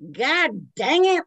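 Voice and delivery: loud high drawn-out yell. Retold or imitated. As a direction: holler it. First take, yelled.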